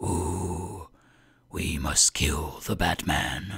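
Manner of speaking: rough low whisper. Speaker talking late at night into the microphone, gravelly Batman whisper. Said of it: "whisper and be all gravelly in the microphone".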